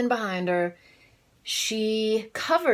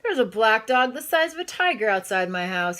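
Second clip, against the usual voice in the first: alarmed report; 4 semitones higher, 4 dB louder than usual. Acted. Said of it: "he told the policeman".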